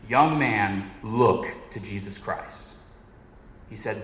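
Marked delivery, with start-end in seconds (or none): 0.1-2.8 mild mock shout, slowing on the appeal; half-raised voice, drawn-out pulpit appeal; retold preacher's shout. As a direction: call out like a Methodist preacher, restrained. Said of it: "then he shouted, as only a Methodist can".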